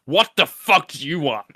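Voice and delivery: angry chef voice. Acted. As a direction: bite their head off as a furious cook. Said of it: "I think, is angry people".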